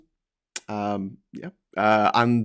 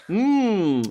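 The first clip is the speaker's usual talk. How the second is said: long, high "mmm" rising and falling; mock-savouring hum; 6 semitones higher than usual. Sniffing an imagined smell of Trump musk, mock-savouring.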